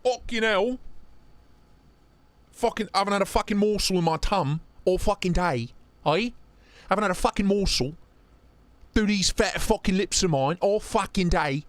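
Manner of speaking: lightly put-on British accent, mocking a friend; a hint of cockney, teasing. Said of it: "I have British friends".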